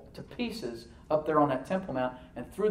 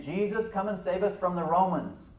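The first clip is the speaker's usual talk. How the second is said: raised-pitch plea, mildly acted; crying out; 5 semitones higher than usual. Jewish crowd appealing to Jesus against Rome, imitating crying out. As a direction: imitate a crowd calling for rescue. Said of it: "the Jews cried out to Jesus".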